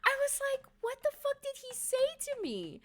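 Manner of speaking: very high, laughing and half-crying; laughing squeal. Real, not acted. Reliving Usopp's whisper to viewers, a high laughing squeal. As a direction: squeak through helpless laughter.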